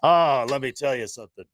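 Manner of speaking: high, excited talk-show host; Regis impression.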